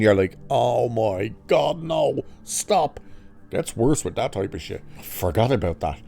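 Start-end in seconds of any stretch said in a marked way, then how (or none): 0.5-3.0 slow, drawn-out cringing plea; mock dismay. Viewer reacting to the mimicking creature, mock dismay.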